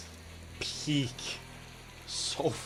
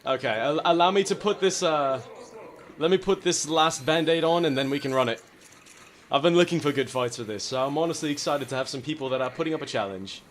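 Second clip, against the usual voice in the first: loud, pompous gentleman; mock gentleman duelist; 4 semitones higher, 5 dB louder than usual. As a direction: boast like a courtly duelist. Post-duel chat, gentleman voice.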